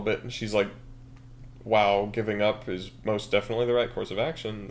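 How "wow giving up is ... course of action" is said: mildly voiced sarcasm; dry, understated mock approval; sarcastic. Maria snapping Dan out of his funk, mild sarcasm. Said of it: "That's sarcasm".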